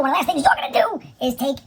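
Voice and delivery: sudden unvoiced stage whisper. Shown as a demonstration. Host to viewers, repeating the step in a whisper. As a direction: drop into a secret whisper on the repeat.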